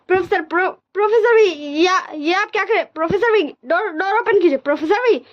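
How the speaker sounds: high-pitched desperate pleading. Acted. Wang ji locked out, begging the professor, high desperate plea. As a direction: beg him to open the door, voice up high.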